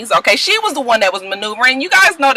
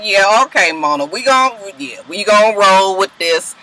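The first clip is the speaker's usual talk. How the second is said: resigned. Retold or imitated. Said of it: "So I was just like".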